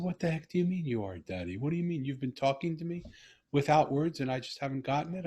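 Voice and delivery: as if his daughter just stunned him; astonished disbelief. Retold or imitated. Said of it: "I said".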